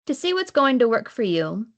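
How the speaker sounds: deliberate recital, each line lifted at the start; poetry reading with set-apart lines; poem reading. Acted. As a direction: read each line as verse, pausing between lines. Reads second poem at reading.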